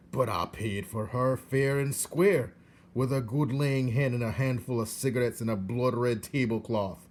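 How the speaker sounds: a touch of indignant pleading; lightly voiced old uncle arguing his case; mild outraged uncle; Uncle protesting. A narrator's reading.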